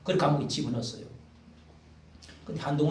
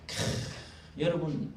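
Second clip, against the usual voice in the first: ordinary talk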